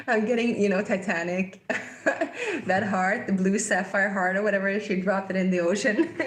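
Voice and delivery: giggles breaking between phrases; real giggling. Real, not acted. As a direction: try to talk through the giggles. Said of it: "I don't know why I'm laughing".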